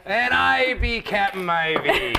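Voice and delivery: slow, hammed-up pirate captain. Co-host introduces himself as a pirate.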